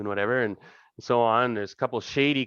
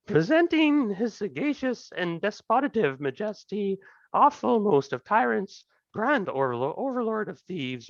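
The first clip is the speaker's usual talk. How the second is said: jester's herald shout; 11 semitones higher, slower than usual. Acted. Jester herald presenting the king to the party, high bellowing announcement. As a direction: announce the king at the top of your lungs. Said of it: "shouting at the top of his lungs".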